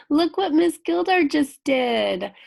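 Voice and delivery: high, loud and drawn out, fresh from giggling; amused. Real, not acted. Teacher points out her own flub to pupils, high and amused. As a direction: exclaim it high and loud, tickled by your own slip.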